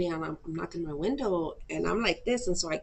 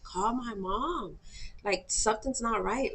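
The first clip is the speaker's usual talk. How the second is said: higher pitch, drawing out the plea; retold panicky demand, stretched and raised; insistent pleading; 4 semitones higher, slower than usual. Begging housemate to call mom, insistent pleading.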